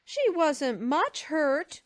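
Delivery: put-on high, loud, slow childish retort; defiant small-boy voice, stretched words; Davy, defiant. A narrator's reading. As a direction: insist like a stubborn little boy. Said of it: "said Davy defiantly".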